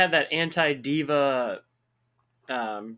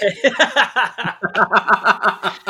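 loud, high burst of laughter; real long belly laugh; 5 semitones higher, 8 dB louder than usual. Real, not acted.

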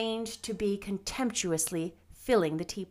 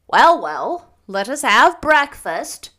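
loud, emphatic, no-nonsense voice; brisk interruption; 4 semitones higher, 13 dB louder, slower than usual. A narrator's reading. Marilla interrupts the gushing to call breakfast, brisk. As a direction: cut in firmly, drawing out the words. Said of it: "interrupted Marilla".

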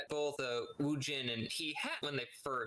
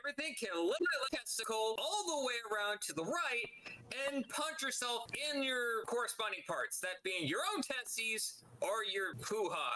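mad; 6 semitones higher than usual. Real, not acted. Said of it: "I'm mad".

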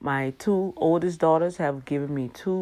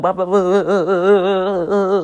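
bumpy road noise; 3 semitones higher, 9 dB louder than usual. Retold or imitated. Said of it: "That's how it was sounding".

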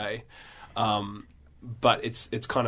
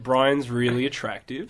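a slow, lazy Australian "Brian's really attractive."; Australian accent demo; slower than usual. Shown as a demonstration. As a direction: drawl it out the Aussie way. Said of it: "say it in an Australian accent".

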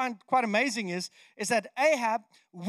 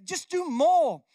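raised, goading jab; offending taunt; 5 semitones higher, 4 dB louder, slower than usual. Acted. Elijah to the failing Baal prophets, goading. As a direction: goad them in a higher, pushier voice. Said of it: "he's offending these, these prophets".

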